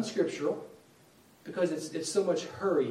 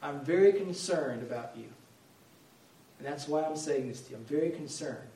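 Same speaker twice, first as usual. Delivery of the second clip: sincere; 3 dB quieter than usual. Retold or imitated.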